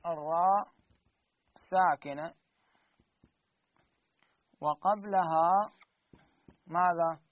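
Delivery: slow, measured chant with long pauses; reciting a rule verse. Shown as a demonstration. Teacher recites the tajweed rule slowly to the class. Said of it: "يقول".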